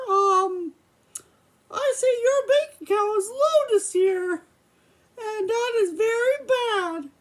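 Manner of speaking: a hint of a cartoon mouse playing a stern father; Mickey voice. Puppet dad questions son about money, lightly voiced Mickey. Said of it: "I gotta use my Mickey voice".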